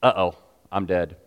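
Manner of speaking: mock alarm. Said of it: "it means".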